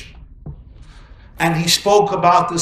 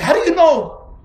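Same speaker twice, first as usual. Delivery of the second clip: high, loud incredulous question; challenging wife; 12 semitones higher, 6 dB louder than usual. Acted. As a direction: fire it back in disbelief.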